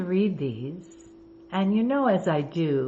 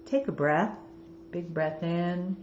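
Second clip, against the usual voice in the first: guided meditation; 3 dB quieter than usual. Acted. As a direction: intone the card message calmly. Reads oracle cards as meditation.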